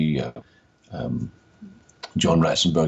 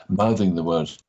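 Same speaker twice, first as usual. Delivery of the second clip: usual speaking voice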